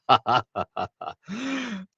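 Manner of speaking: a real high burst of laughter; amused high cackle. Real, not acted. Laughing at a funny comment.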